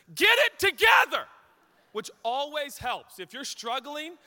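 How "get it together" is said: loud high barked command; coach yelling. Retold or imitated. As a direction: yell it like a furious coach. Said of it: "and he says this".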